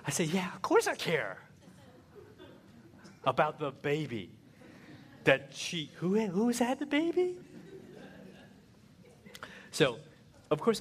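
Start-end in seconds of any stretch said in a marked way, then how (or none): 0.2-7.4 higher, faked eager answer with a laugh; lying husband. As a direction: cover up badly. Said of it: "so then I lie".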